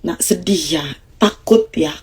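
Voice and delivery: put-on soft, low calming voice to the child; demonstrating a low, soft calming voice; low soothing tone. Shown as a demonstration. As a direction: settle the upset child gently and low. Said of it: "Pakai nada rendah".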